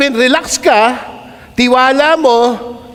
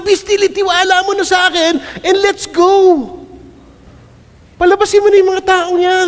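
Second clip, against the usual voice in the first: voice of God; 8 semitones higher than usual. Acted. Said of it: "Sinabi ko na nga".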